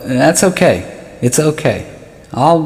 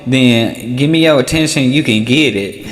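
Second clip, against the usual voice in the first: street-corner hustler; 4 semitones higher than usual. Retold or imitated. Attention seeker calling out to passers-by, lightly hammed hustler. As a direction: hawk it like a corner pitchman. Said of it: "just being like".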